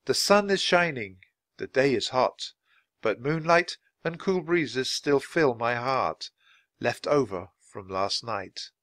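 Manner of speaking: slowing, thoughtful recitation of a haiku; poem recital. Acted. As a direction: let the images settle as you say them. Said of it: "looked up at the cloudless sky and said".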